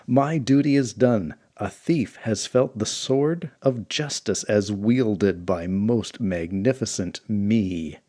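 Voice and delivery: slow, grand self-praise; pompous boast. Acted. Hero boasting after the whack, slow and grand. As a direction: savour every word of your own glory.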